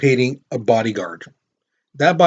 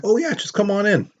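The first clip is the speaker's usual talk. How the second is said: higher-pitched, lightly voiced maid; casual maid; 7 semitones higher than usual. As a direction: breezily wave the visitor in, pitched up. Voicing the maid welcoming Powell in.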